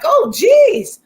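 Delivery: high, loud whiny fan voice; mock whiny Britney. Britney whining to the guard after the slap, high and pitiful. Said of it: "And she's like".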